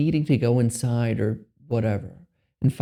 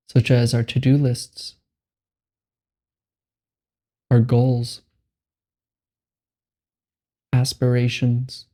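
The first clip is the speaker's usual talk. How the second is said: guided meditation; 4 dB louder than usual. Acted. Meditation guide giving listeners permission to be here, measured and spacious. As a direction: guide them unhurriedly into letting go.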